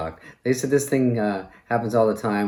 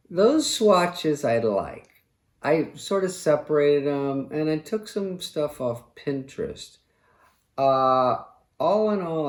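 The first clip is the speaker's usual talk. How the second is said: fussy decor-minded husband; 4 semitones higher than usual. Acted. Retired quarterback showing his wife swatches, affected fussy husband. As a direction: present the mood board with affected, lilting care. Acts quarterback helping wife's clothing line.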